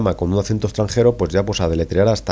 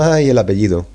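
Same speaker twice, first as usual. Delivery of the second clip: laughing exclamation; 2 semitones higher, 4 dB louder than usual. Real, not acted. Laughing exclamation about surname.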